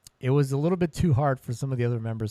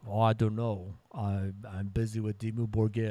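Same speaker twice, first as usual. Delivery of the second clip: clumsy mock Norwegian accent; bad Norwegian accent. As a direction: imitate a musician with a poor Norwegian accent. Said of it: "That's a horrible Norwegian accent".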